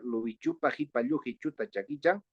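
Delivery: rhythmic run, quickening at the close; tongue-twister recital. Shown as a demonstration. Teacher challenges colleagues to do it without reading, tongue-twister recital. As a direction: recite it fluently as if from memory. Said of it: "alguien puede hacerlo sin leer".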